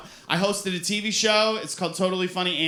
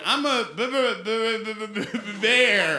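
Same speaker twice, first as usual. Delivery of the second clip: a bear sounding out words badly, higher pitched; struggling bear reader; 3 semitones higher than usual. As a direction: stutter on the B, then blurt it. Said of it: "a bear wouldn't be good at reading".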